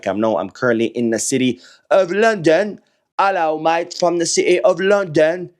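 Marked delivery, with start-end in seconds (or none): 3.2-5.5 hammed-up mock English accent; bad English accent. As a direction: badly fake an English accent as a cheery greeting. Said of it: "horrible attempt at an English accent".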